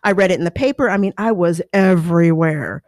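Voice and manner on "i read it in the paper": excited fan. Retold or imitated. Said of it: "they would come up and say".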